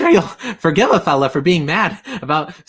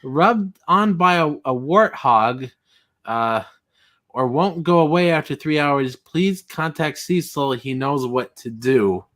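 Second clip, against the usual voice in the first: creepy slow reading; 2 semitones lower, slower than usual. Retold or imitated. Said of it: "He says".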